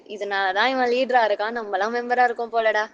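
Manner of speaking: ordinary delivery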